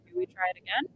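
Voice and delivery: slightly glitchy digital audio; fast, choppy robot sound from a bad mic. Real, not acted. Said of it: "You just sound a little weird".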